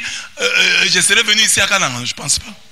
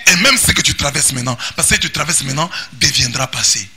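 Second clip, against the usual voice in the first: rising pulpit exhortation; preaching at full force; 3 semitones higher than usual. Acted. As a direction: preach it out over the music. Sermon rises over music again.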